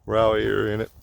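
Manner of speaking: panting after a climb; breathless, gulping air between words; out of breath. Real, not acted. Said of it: "I gotta catch my breath".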